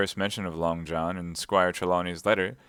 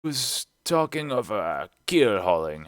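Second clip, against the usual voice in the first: slow, halting reply; lightly voiced, reluctant old sailor; hesitant sailor's answer; 2 semitones higher, slower than usual. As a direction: answer unwillingly, feeling for the word. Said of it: "answered Morgan".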